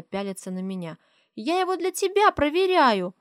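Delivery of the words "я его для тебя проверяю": put-on high little girl explaining; high child's voice. A narrator's reading. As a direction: explain it like a proud small girl.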